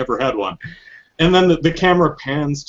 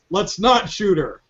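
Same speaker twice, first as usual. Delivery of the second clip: Big Boss; 5 semitones higher than usual. Acted. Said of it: "Big Boss comes in and goes".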